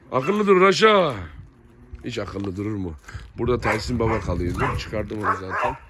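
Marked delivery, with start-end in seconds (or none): 0.1-1.1 slow, loud and high, telling the dog off; a slow, raised scolding for a misbehaving pet; stern call to the dog. Real, not acted. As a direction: drag out a firm warning to a restless dog.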